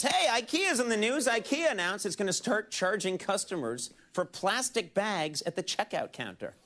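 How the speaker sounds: relaunch the joke with showy pep; showy joke restart. Pretend. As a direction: lift the opening high, then press on. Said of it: "So watch this".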